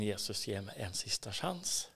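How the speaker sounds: low, soft plea from inside; inward cry. Retold or imitated. Man being strangled silently begs Jesus, inward cry. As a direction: pray it quietly, like a thought. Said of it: "tänker jag så här som en rop på insidan".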